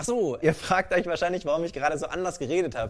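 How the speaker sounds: ordinary talk, nothing marked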